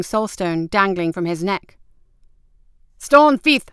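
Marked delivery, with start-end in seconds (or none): 3.0-3.7 high, loud cry of alarm; shout. A narrator's reading. Captain spots the soulstone on Bin, shouting alarm. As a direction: shout the accusation out. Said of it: "the captain shouted".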